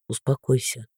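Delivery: low, soft, lifeless; dead, hollow voice. Acted. Father to sobbing daughter, dead and low. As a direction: say it hollow and drained. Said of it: "глухим и будто бы мёртвым голосом".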